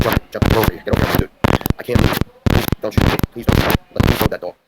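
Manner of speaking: retold shouted orders. Officer shouting at the teen to jump the fence, loud commands. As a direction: yell it like a cop giving orders.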